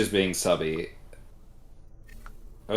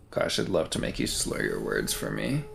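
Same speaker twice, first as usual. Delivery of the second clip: flirty; 12 semitones lower, 5 dB quieter than usual. Acted. Flirty tease after slur comment.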